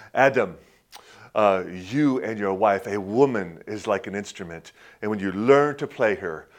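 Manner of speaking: a hint of an old German pastor; German accent. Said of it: "he had this thick German ac-, accent".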